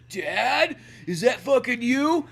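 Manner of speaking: Fox voice. Pretend.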